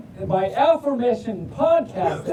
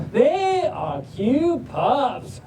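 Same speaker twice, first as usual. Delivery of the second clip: slow, stretched Southern storytelling; Southern drawl; 2 semitones higher, much slower than usual. Acted. Reader introducing pups learning to drive, slow Southern drawl. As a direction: draw out the vowels like a Southerner. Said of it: "but in a Southern drawl".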